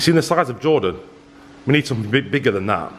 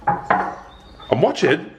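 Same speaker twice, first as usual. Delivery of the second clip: slow, drawn-out mock threat; mock suspicious; much slower than usual. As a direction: play the distrustful sister, slowly. Mock warning to sister.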